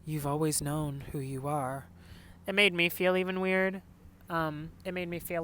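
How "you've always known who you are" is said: unsure, held-back comfort, lightly voiced; hesitant. Mom to son, a hint of hesitant reassurance. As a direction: say it like you don't quite mean it. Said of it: "almost like a hesitant".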